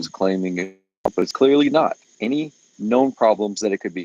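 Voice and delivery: choppy, breaking-up call audio; bad connection. Real, not acted. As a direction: voice cutting in and out. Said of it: "you're breaking up real bad".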